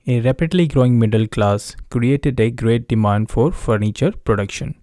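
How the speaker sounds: slow, steady reading of an exam passage; read-aloud demo. Shown as a demonstration. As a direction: read each phrase slowly and clearly, like a model answer. Teacher reads sample paragraph aloud. (धीमी, साफ़ आवाज़ में paragraph पढ़ना)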